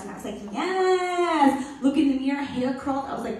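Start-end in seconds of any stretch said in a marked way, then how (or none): 0.5-1.6 high, loud, drawn-out yes; excited. Retold or imitated. Twelve-year-old finally allowed to wear the dress, excited. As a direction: squeal it out in retold delight. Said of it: "I was so excited".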